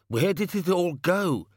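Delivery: hammed-up frantic cry; screamed. A narrator's reading. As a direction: wail it out like a panicking manager. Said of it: "screamed the manager".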